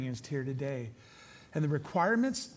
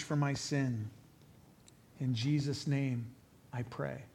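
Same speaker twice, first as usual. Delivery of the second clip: measured, slightly lowered prayer voice; leading prayer; 3 semitones lower than usual. Real, not acted. Preacher leads listeners praying in their hearts, measured prayer. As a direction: lead them through it phrase by phrase, with pauses.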